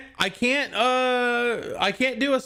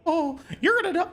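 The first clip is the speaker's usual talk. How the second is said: lightly raised, teasing mouse voice; Mickey impression; 7 semitones higher than usual. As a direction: taunt the victim like a creepy cartoon mouse. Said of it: "uh, Mickey impression".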